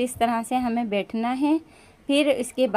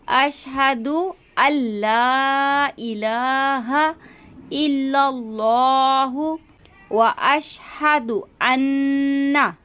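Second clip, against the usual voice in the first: slow recitation; much slower than usual. Shown as a demonstration. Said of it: "नून मुशद्दद का हम गुन्ना करेंगे".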